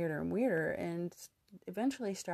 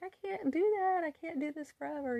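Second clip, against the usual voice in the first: retold sobbing; 11 semitones higher, 4 dB louder than usual. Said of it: "I'm sobbing".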